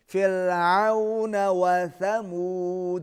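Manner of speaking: slow, measured tajweed chant; teacher modelling a recitation; Quran recitation. Shown as a demonstration. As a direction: recite it slowly for the pupil to copy. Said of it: "دال پر قلقلہ ہوگا".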